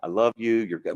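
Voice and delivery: mild tender words. Retold or imitated. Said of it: "He just says good stuff to this bowl of water".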